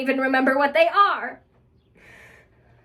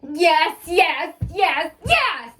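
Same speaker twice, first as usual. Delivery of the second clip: impatient yes; 5 semitones higher, much slower than usual. Acted. Answering impatiently.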